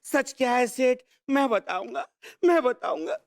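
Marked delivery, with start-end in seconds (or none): 1.3-2.1 low-key, restrained vow; volunteer the truth in a held-back voice; grave declaration. Acted. Servant offers his boss the truth, grave. First take of a repeated declaration. 2.4-3.2 raised, more urgent vow; insistent declaration. Acted. Servant insists on telling the truth, insistent. Second take, escalating declaration.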